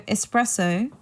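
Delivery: espresso with an S and no X; ess-PRESS-o for espresso, rising at the end; correct espresso. Shown as a demonstration. Teacher returns to the word, espresso said without any X. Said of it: "pronounce it without the X".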